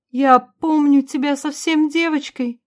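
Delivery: slow, high-pitched mother's murmur, fully voiced. A narrator's reading. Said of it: "пробормотала Ванора".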